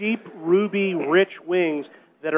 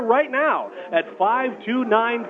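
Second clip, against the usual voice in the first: slow; 7 semitones higher, much slower than usual. Acted. Reading out the phone number.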